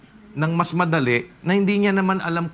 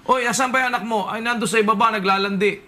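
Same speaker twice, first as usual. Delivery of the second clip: Quezon Tagalog; 6 semitones higher than usual. Retold or imitated. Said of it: "ginagamit nila yung".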